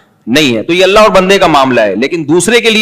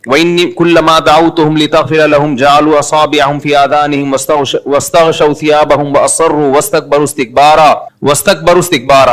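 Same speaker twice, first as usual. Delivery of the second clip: Quran recitation. Acted. Preacher reciting Noah's words to listeners, measured Quranic recitation. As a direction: recite steadily from memory, long vowels held.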